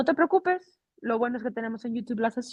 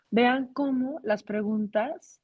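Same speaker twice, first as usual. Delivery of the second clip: slower, clearer repeat of vean cómo las preguntas; teacher slows down to point it out; slowed repeat; 3 semitones higher, slower than usual. Shown as a demonstration. Teacher repeats for the class, slower. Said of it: "repeats for emphasis".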